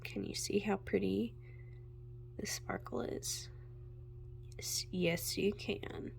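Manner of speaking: hushed, delighted whisper; soft whisper. Real, not acted. Vlogger showing viewers the sparkle in a hush. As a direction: whisper as if sharing a secret.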